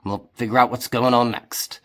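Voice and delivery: a hint of a hearty pirate offering his tent; friendly Crom. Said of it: "And Crom nods and goes".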